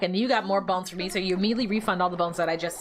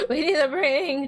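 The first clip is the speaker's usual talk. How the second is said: voice cracking; 5 semitones higher than usual. Real, not acted. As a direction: voice cracks on the word. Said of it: "why did my voice crack like that?".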